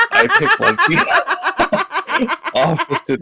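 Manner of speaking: giggling through the words; laughing at own voice choice. Real, not acted.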